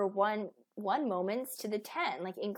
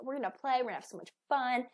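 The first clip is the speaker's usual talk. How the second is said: excited parent; 3 semitones higher, faster than usual. Retold or imitated. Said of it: "And you're like".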